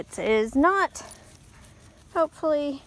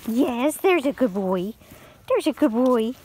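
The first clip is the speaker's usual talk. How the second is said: praising dog. Real, not acted.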